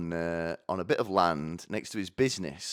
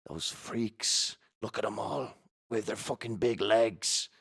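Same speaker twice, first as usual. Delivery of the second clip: softer, disgusted aside to a seatmate; imitated snooty passengers; 4 dB quieter than usual. Seated passengers on standing ones, hushed mock disgust. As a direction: gossip under your breath about fellow passengers. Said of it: "they look at each other".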